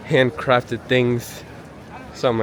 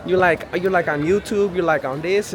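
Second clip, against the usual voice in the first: imitating the guy; 8 semitones higher than usual. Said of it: "he was like".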